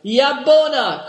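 long, loud, high shout; loud cry. A narrator's reading. Chief shouts a parting cry, loud. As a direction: hurl the word to spur the horse. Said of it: "cried Dampignac".

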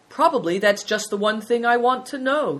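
lightly voiced amiable old lama. A narrator's reading. Lama answers the boys' caveat, amiably. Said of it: "said the Iolros Lama amiably".

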